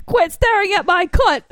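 high, shouted mock outrage; Carol. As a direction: bawl it as a crude British harridan. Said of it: "she smacks children and stuff".

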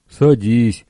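short firm order; commanding. Acted. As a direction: bark the command. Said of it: "приказал он".

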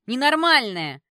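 high, loud insult; shouted in outrage; outraged yell. A narrator's reading. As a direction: hurl it at her, yelling. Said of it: "заорала Кэти".

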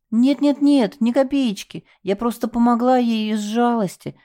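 frightened plea. A narrator's reading. Scared girl pleads after sobbing.

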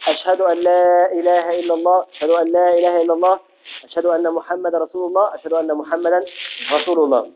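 slightly fuller, called out. Shown as a demonstration. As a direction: raise the voice for the repeat. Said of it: "الشهادتين بصوت مرتفع".

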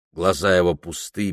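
plain reading voice

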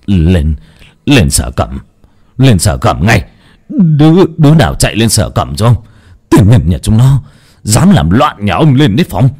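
master losing his temper, yelling for the police; enraged command rising in pitch; furious shrieking. Acted. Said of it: "Cậu Hoàng rít lên".

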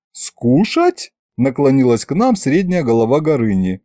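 high-pitched dragon head; dragon's eager offer. Acted. Middle dragon head offers to eat the soldiers, eager high voice. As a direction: offer hopefully, pitched right up.

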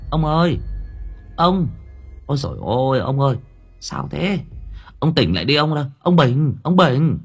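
anxious wife rousing her husband; worried calling. Acted. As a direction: call him awake with rising alarm. Wife calls husband out of delirium.

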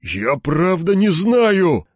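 hoarse. Acted. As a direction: rasp it out in fear. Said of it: "захрипел Верёвкин".

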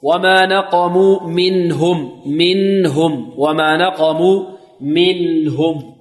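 slow chant, sound flowing through the nun of منهم; measured flowing nun. Shown as a demonstration. Teacher modelling for students, measured flowing nun. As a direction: draw out منهم with a humming, unbounced nun. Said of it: "يجري معها الصوت جريانا".

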